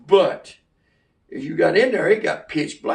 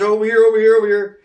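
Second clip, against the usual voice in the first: louder, higher call across the woods; 4 semitones higher, 6 dB louder, faster than usual. Retold or imitated. Little brother calling his brother to the drain pipe. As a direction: call him over, urgent.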